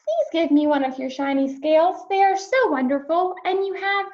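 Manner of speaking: high, small pleading fish voice; pleading little fish. Acted. Little blue fish begs Rainbow fish for a scale, high and pleading. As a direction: beg sweetly like a tiny fish.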